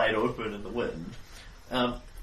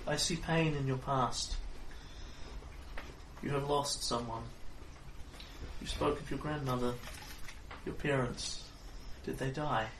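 fortune teller; 7 dB quieter than usual. Acted. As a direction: read the cards gently, gravely.

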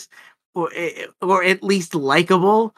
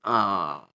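low groaned "oh"; weary groan; 10 semitones lower, 6 dB quieter than usual. Retold or imitated. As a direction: groan it low, as if fed up with repeats. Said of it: "And I'm like".

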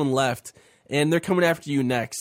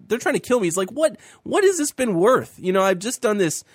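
desperate Elijah; 3 semitones higher than usual. Retold or imitated. Host voicing Elijah complaining to God, high and pleading. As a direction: voice lifted high, pleading and lost.

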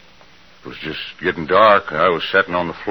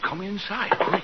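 higher, quick urgent order; 14 semitones higher, 8 dB quieter than usual. Acted. Husband pulls frightened wife indoors, urgent. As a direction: hurry her in out of danger. Jim orders Lila inside.

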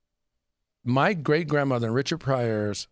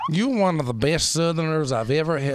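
lightly put-on British accent praising a Southerner; a hint of a posh British gentleman; mock British accent; 3 semitones higher than usual. Podcast host teasing his guest in a mild British accent. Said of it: "Great accent".

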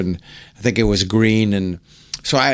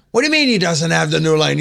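higher-pitched mock outburst at the crew; imitated yelling; 5 semitones higher, faster than usual. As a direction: act out a star yelling at people. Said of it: "He starts yelling at people".

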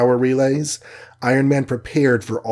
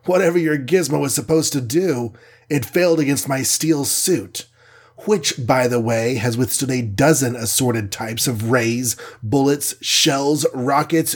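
cocky hero; 2 semitones higher than usual. Acted. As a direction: brag about the steel suit with ease. Iron Man brags to alien.

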